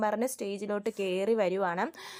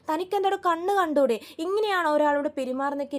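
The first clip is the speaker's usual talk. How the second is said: heated scolding; 4 semitones higher than usual. Retold or imitated. Wife scolding the man who hit her husband, heated anger. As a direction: snap at him for being careless. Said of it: "Revathi അവിടെയും ചൂടാവുന്നുണ്ട്".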